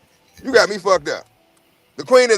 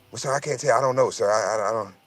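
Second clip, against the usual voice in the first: softer, timid, stammering server; meek waiter; 4 semitones lower, 4 dB quieter than usual. Retold or imitated. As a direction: cower and make excuses, sir. Voicing the meek waiter again.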